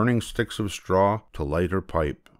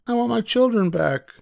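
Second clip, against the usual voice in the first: very high, louder call; mother demanding at the witch's hut, very high and loud; 3 dB louder than usual. Acted. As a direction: demand at the door. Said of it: "the mother called".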